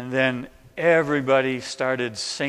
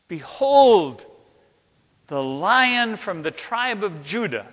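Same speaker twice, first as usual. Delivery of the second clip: raised, higher heralding voice; angel's proclamation; 5 semitones higher than usual. Acted. Angel announces the Lion to those weeping, in a raised voice. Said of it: "shouted out in a loud voice".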